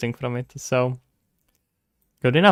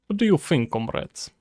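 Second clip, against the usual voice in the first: put-on stereotypical Russian accent. Shown as a demonstration. Streamer showing chat a Russian accent on request, stereotypical Russian accent. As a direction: lean into a Russian accent, dropping down on the last word. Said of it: "what should I say with Russian accent".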